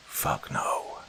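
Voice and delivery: voiceless hissed curse; under his breath. A narrator's reading. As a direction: swear it in a whisper. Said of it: "swore under his breath".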